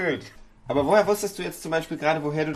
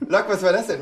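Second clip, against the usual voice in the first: laughing, louder and higher; delighted disbelieving laugh; laughing disbelief; 5 semitones higher, 6 dB louder than usual. Real, not acted.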